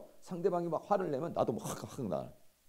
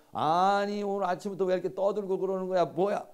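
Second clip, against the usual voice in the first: loud, high, scolding outburst; angry retort; 5 semitones higher, 5 dB louder than usual. Acted. Husband snaps back at wife over morning fuss, angrily. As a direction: snap back in an acted row.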